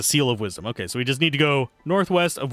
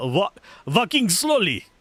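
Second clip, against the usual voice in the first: put-on Spanish accent on slowly, pitched up; 6 semitones higher than usual. Retelling how a cartoon character says the name: imitating a Spanish accent. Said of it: "When he says it with the accent".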